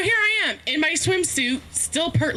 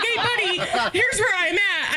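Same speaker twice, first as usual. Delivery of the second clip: higher, giggling as she reads the text; amused at her own plight; laughing while quoting her text to her friend; laughing through it; 5 semitones higher, slower than usual. Retold or imitated.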